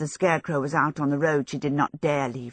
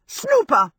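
indignant shout; 9 semitones higher, 6 dB louder than usual. A narrator's reading. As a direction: shout it higher and louder, outraged. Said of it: "Sophie shouted".

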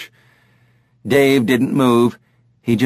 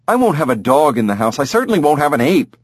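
fast, firm insistence; exasperated wife; 4 semitones higher, faster than usual. Acted. Lynn refuses the ape to Henry, fast and firm. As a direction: rattle off her refusal.

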